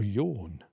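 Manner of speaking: "yourn" as the local word for "yours"; "yourn", one syllable with a final N; Earthlingborough dialect. Shown as a demonstration. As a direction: say "yourn" ending in N instead of S. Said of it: "You would say".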